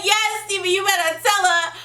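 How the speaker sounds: laughing high quote. Retold or imitated.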